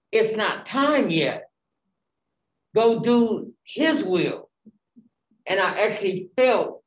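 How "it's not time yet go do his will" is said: slow, solemn voice of God speaking; God's voice. Retold or imitated. God telling her to go back, slow and solemn. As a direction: spell it out slowly like God's command. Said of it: "hearing God telling me".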